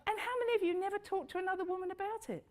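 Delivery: quick question with laughter; laughing through the question. Real, not acted. Laughing while asking audience.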